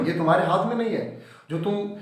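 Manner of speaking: mildly acted provocation, pushing him; goading. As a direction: egg him on, as a teacher retelling it. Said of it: "Mr Lam थोड़ा उसको excite करते हैं जानबूझ के".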